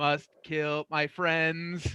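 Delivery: slow, level, unvaried delivery. Running the game, voicing Doc as he acts first: monotone Doc voice. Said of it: "Doc says in a monotone voice".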